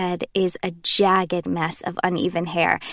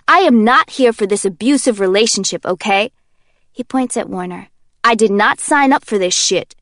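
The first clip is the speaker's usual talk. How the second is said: loud, fed-up protest; indignant Kenji; 6 dB louder than usual. Acted. Kenji protests Warner's threats, loud and fed up. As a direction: complain loudly and back off.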